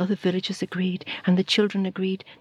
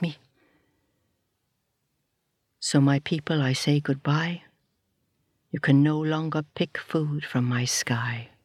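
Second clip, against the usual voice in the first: a touch lower, grave and sorrowful; lightly voiced sky; 3 semitones lower than usual. Sky to the people, lightly lower and grave. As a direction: speak as the disappointed sky.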